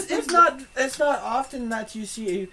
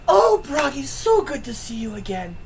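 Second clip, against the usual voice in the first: Madame Eva greeting; 4 semitones higher, 5 dB louder than usual. Acted. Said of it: "She goes".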